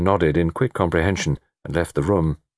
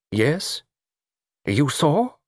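encouraging; 8 semitones higher, much slower than usual. A narrator's reading. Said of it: "patted her hand encouragingly".

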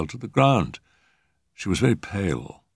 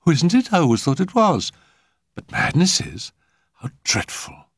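high-pitched, surprised hostess; flighty society lady; 11 semitones higher, 3 dB louder than usual. Acted. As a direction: prattle in a high voice. Hostess prattles at the physician.

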